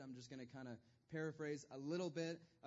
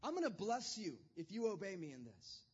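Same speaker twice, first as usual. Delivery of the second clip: raised, earnest voice of God; God promising; 4 semitones higher than usual. Retold or imitated. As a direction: promise it eagerly, like a friend. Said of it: "He said".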